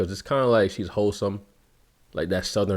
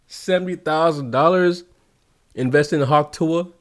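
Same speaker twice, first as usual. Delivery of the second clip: incredulous; 6 semitones higher than usual. Real, not acted. Disbelief at the crypto loss.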